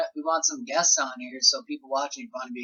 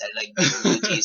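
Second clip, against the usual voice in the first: rough attempt at a Russian accent. Shown as a demonstration. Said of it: "My Russian accent".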